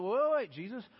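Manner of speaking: high, loud burst of worry, easing on the name; anxious disciple trying to stop Him; anxious protest. Acted. Disciples balking at leaving Jesus, anxious protest. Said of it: "another anxious moment for the disciples".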